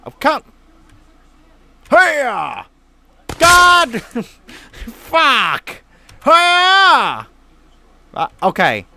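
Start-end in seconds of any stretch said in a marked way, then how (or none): 1.9-2.7 effortful throwing shout; tennis grunt. Pretend. Throwing in game. 6.2-7.3 higher, louder throwing yell; big effort grunt on the throw; tennis grunt. Pretend. Throwing in game.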